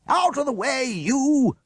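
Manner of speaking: high, loud bark from horseback; angry shout. A narrator's reading. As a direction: order them aside. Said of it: "shouted the huntsman".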